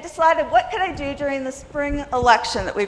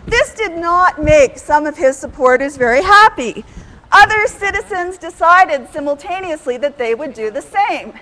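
outraged voice; 5 dB louder than usual. Shown as a demonstration. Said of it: "I am going to use my outraged voice".

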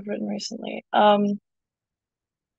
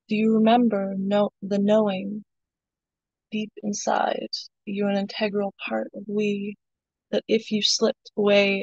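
poem reading. Acted. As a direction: read it like a spoken word poem. Reads her poem aloud.

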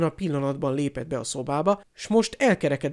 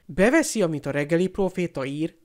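raised voice; 2 semitones higher than usual. Acted. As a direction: raise your voice in a challenge. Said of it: "emelte fel a hangját Harry".

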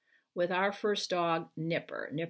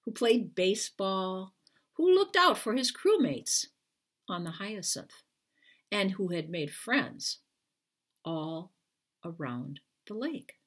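gentle picture-book narration with lifted pitch; reading to children. Acted. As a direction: read it like bedtime to little kids. Author reads picture book aloud.

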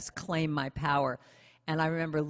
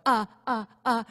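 acted-out stuck stammer, slightly higher; tongue-tied stammer; 5 semitones higher than usual. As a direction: play being lost for words. Retells freezing when called on.

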